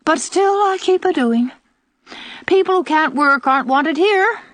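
put-on high, put-upon, needling old woman; martyred old aunt. Old aunt to two young lady visitors, martyred and scornful. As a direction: play the martyr while digging at the guests.

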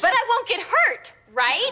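slow, emphatic "hurt", then "right" rising; "hurt" drawn out firmly, "right" lifting in a question; insistent repeat. Acted. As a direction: press the question, leaning on "hurt". Asks a third time, being ignored.

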